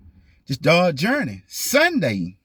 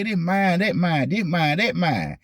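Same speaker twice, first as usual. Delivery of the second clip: mocking boastful owners; 5 semitones higher, slower than usual. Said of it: "people walking around here and say".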